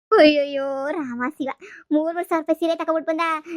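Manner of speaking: loud opening cry of astonishment; astonished, pitch lifted; amazed exclamation. Acted. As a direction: marvel at an expensive gift. Amazed at the sari's price.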